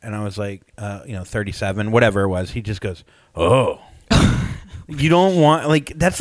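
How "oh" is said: low, drawn-out mock groan; dismayed doctor's oh. Doctor hearing about five polyps, imitated dismayed oh.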